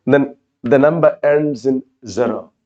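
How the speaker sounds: usual speaking voice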